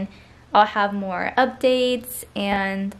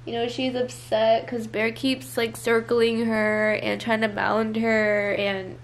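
teary. Real, not acted. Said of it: "I was just crying".

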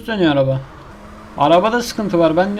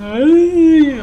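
shrill exasperated cry; 11 semitones higher, 6 dB louder than usual. Real, not acted. Frustrated gamer failing again.

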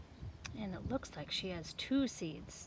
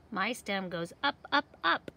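rising pitch; 5 dB louder than usual. Acted. Stem grows upward.

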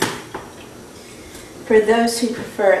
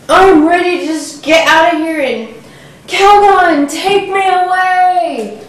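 frazzled; 5 semitones higher, 5 dB louder than usual. Acted. Frazzled woman in commercial parody.

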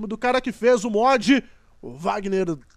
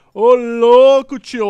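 hyped shout; 10 dB louder, much slower than usual. Real, not acted. Blasting car sound system.

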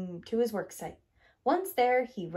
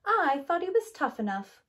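higher, louder clattering complaint; 7 semitones higher, 4 dB louder than usual. A narrator's reading. Grader clattering in disappointment at bulldozer. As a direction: add your complaint. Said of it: "clattered Grader".

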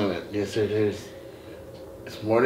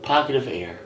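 game show announcer; 7 semitones higher, 8 dB louder, slower than usual. Acted. Mock prize announcement.

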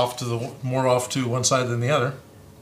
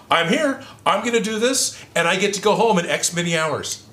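higher-pitched self-encouragement; acted self pep talk; 5 semitones higher than usual. Giving new-job advice, acting out resolute self-talk. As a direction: recite it like a pep talk to yourself.

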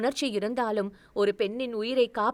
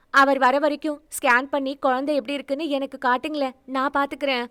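higher, eager pleading with the doctor; pleading young woman; 4 semitones higher, 4 dB louder, faster than usual. Acted. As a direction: beg the doctor, voice raised and urgent. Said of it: "மருத்துவரிடம் கெஞ்சினாள்". (உயர்ந்த குரலில் கெஞ்சல்)

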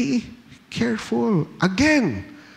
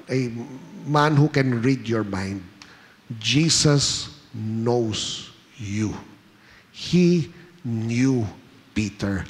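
normal talking voice

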